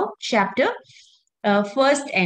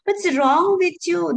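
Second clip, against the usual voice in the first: stern rebuke; 6 semitones higher than usual. Retold or imitated. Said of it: "So Krishna is saying".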